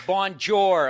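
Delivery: "Bonjour" loud and flatly American, hard n and r; deliberate mispronunciation. Shown as a demonstration. Ignorant American greeting the French, deliberately mangled "Bonjour". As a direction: butcher "Bonjour" as "bahn-jore", loudly. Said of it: "deliberately mispronounce one of their words".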